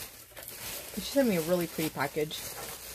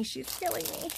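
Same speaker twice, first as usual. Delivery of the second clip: squealing delight; 10 semitones higher, 4 dB quieter than usual. Real, not acted. Opening gifts, overwhelmed with delight.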